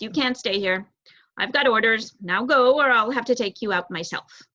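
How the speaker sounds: stern guard order. Acted. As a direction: push her away with firm threats. Brutus orders the mouse away.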